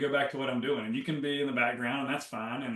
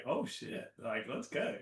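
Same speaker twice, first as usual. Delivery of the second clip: eager new way; 8 dB quieter than usual. Retold or imitated. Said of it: "now it's like".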